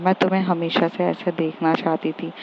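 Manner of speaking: soft, tender confession; lovingly. Acted. Tanishka confessing to Smriti in the dim room, soft and loving. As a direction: say it softly with love. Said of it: "फिर उसको बहुत प्यार से बोलती है".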